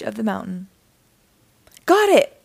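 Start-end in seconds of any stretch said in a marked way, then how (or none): 1.9-2.4 high, loud, quick reply; calling back. A narrator's reading. Dangling ranger answering her rescuers, loud call. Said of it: "Ranger Katie called".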